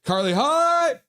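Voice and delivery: high, loud, stretched cheer; gleeful acted yell; fangirl squeal. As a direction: greet like an overexcited fan. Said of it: "Fangirl's like".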